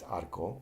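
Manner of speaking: arco with one quick tongue flap on the R; single flapped R. Shown as a demonstration. Teacher giving a single R example, one flap in arco. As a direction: tap the R once in arco. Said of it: "flap your tongue once".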